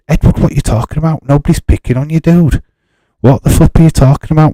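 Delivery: high and fast, what are you on about; exasperated disbelief. Real, not acted. Streamer baffled at Edward for quitting, high exasperated disbelief.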